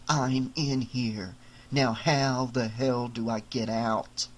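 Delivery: a small doll muttering to himself, slowly; trapped doll. Acted. Doll character's inner voice.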